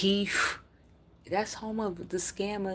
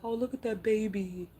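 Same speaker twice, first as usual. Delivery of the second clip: higher, lightly cooing imitation of softhearted viewers; mocking cooing; 6 semitones higher, 3 dB louder than usual. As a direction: mimic the gushing fans. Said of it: "they be like".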